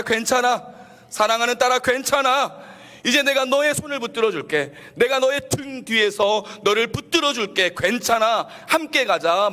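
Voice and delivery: loud, high, fervent sermon delivery; rousing high-pitched pulpit climax; impassioned preaching. Real, not acted. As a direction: proclaim God's comfort at full force. Preaches at full force.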